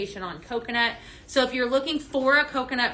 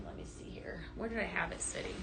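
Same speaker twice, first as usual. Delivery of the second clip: muttered aside; 4 semitones lower, 15 dB quieter, faster than usual. Real, not acted. Searching for a misplaced product.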